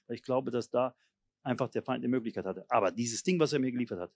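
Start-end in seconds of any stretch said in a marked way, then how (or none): 0.1-2.6 softly confessing to the Lord; a quiet, sincere prayer of repentance; modelling a humble prayer of repentance. Shown as a demonstration. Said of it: "muss sagen".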